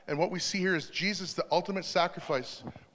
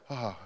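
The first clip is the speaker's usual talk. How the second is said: sigh of relief; 7 semitones lower, 5 dB quieter than usual. Retold or imitated. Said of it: "as soon as they hear your voice".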